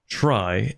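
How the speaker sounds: doubtful try; stress on try. Shown as a demonstration. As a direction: try leaned on with a pause after. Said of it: "emphasis on the word try".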